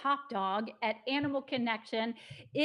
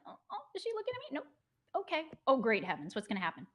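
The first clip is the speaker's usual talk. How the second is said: voicing a nervous dog; 3 semitones higher, much faster than usual. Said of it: "she's looking like".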